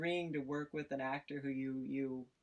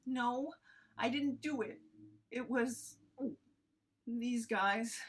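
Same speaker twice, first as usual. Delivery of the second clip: high, protesting denial; whiny denial; 8 semitones higher than usual. Acted. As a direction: insist you didn't do it. Character denies teleporting.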